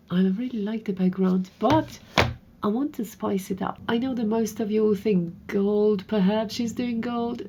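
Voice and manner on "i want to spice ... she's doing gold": usual speaking voice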